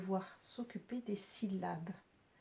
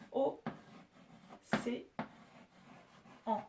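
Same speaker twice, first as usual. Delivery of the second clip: O, C, en with long gaps; each of O, C, en as a separate beat; split into syllables. Shown as a demonstration. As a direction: sound out O... C... en one by one. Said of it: "trois syllabes".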